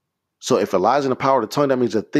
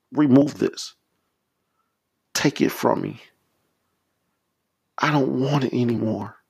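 earnest plea to God, a little raised; confessional prayer; 2 semitones higher than usual. Shown as a demonstration. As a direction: confess it haltingly, petition by petition.

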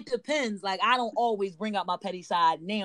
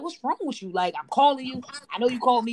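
higher-pitched, mildly confrontational retelling; retold going off on him; 4 semitones higher, faster than usual. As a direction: re-enact telling him off, pitch raised without shouting. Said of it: "I just go off on him".

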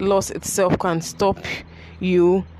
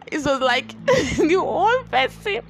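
sad; 3 semitones higher than usual. Real, not acted. Grief over her late father.

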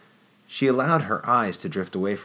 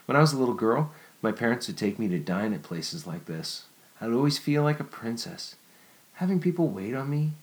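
put-on lightly raised, wistful young woman; Jennifer's voice; 4 semitones higher than usual. Jennifer telling Nicholas of childhood dinners, lightly raised. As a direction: remember being a little princess.

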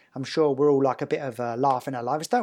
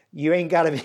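put-on Texan accent; 2 semitones higher, 4 dB louder, faster than usual. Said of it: "I'm gonna try to do his accent here".

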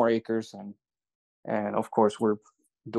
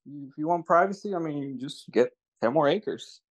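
higher-pitched, offhand joking quote; so jokingly; 4 semitones higher than usual. Retold or imitated. Retelling partner's pitch to privacy-seeking buyers, jokingly. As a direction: imitate a partner's casual, kidding suggestion. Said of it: "so jokingly too".

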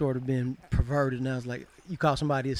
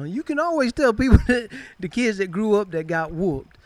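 laughing through it; 6 semitones higher, 7 dB louder than usual. Real, not acted. Laughing while telling about whoopings.

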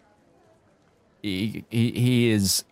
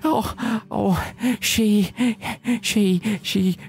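put-on higher, lovesick young man in a Kiwi accent; 7 semitones higher than usual. GM as Gavin telling the party about Alice, pleading Kiwi voice. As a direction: pour out his heart in a New Zealand lilt. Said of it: "the Kiwi that this guy has become".

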